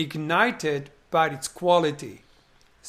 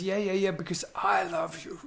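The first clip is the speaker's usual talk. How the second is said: soft, hushed confession; a whispered declaration of love; 4 semitones higher, 3 dB quieter than usual. Retold or imitated. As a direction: breathe the words out like a secret. Hero finally confesses his love.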